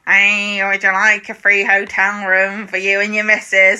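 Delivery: lightly voiced smarmy Ray. Ray offering the planning man a bribe, lightly voiced. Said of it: "good Ray voice".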